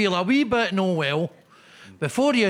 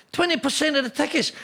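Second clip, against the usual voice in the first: mock disbelief; 6 semitones higher, faster than usual. Real, not acted. Mock disbelief at low sales.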